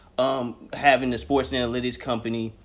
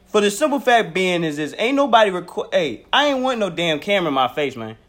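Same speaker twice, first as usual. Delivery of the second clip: coach voice with twang; 5 semitones higher, 5 dB louder than usual. Pretend. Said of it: "Why you sound like the coach from Howard?".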